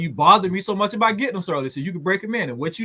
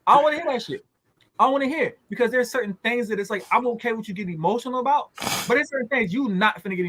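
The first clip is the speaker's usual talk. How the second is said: stern retold scolding; 6 semitones higher, faster than usual. Father telling his son he won't hear it, stern retold scolding. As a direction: put your foot down, voice raised.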